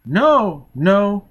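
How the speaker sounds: put-on high, loud child's cry; frightened child. A narrator's reading. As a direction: squeal it like a scared little girl. Child refuses in fear.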